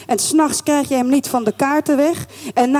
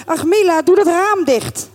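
higher-pitched motherly order; mild exasperation; 7 semitones higher than usual. Acted. Mother telling daughter to shut the window, mildly exasperated. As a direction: break off to call an order.

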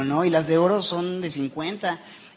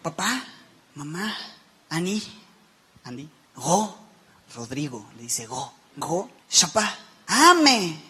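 put-on toddler talk; slower than usual. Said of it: "Y dice".

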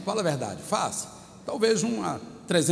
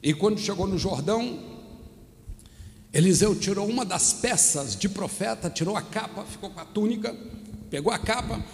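preacher's narration; 3 semitones higher than usual. Real, not acted. Preaches the Bible story.

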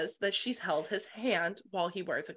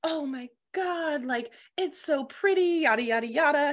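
mock freaking out; 7 semitones higher, 3 dB louder than usual. Everyone admiring the necklace of roses, mock freaking out. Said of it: "everyone's freaking out".

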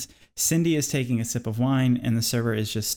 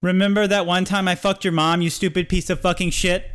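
loud, high-pitched insult; raised-voice fury, pitched high; angry outburst; 6 semitones higher, 4 dB louder than usual. Acted. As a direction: finally blow up at your tormentor. Acted blow-up after being needled.

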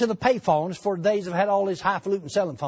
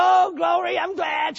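excited wife; 9 semitones higher, slower than usual. Retold or imitated. Wife rejoicing on phone.

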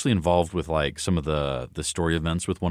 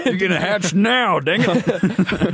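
high frustrated yell; 12 semitones higher, 4 dB louder, much slower than usual. Pretend. Mock frustrated player yelling at egg.

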